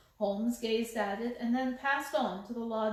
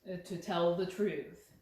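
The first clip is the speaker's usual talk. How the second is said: calm insistent Holmes; 5 semitones lower than usual. Acted. Holmes presses the lady.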